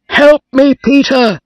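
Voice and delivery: loud, high cry for help from the sea; panicked call to Peter; desperate call. A narrator's reading. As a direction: shout it as he's swept away. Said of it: "Stewart called".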